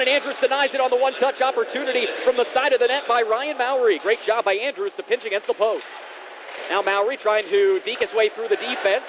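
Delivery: brisk hockey commentary; play-by-play. Real, not acted. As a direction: call the action live. Live play-by-play.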